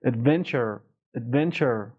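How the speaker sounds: Adventure with firm stress on the middle syllable. Shown as a demonstration. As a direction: press on the VEN in Adventure.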